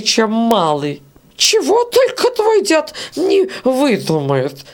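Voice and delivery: put-on high, slow scolding old woman's voice; grumbling old beetle. Old beetle scolds grandfather Prokhor to Varya. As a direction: sneer at the old man's nonsense.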